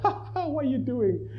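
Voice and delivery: high, jeering laughter at a silly brother; mocking laugh. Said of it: "the two little pigs were laughing at him".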